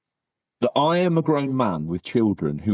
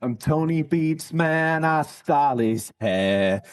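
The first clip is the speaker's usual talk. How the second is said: high, slow, giddy gushing; overexcited rant; 8 semitones higher, slower than usual. Real, not acted. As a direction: gush like you've had way too much coffee. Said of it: "coffee's kicked in".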